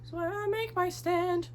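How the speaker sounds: slow, high, grand movie-hero line; dramatic declaration. Pretend. Vlogger to camera, playfully quoting an epic film line, slow and grand.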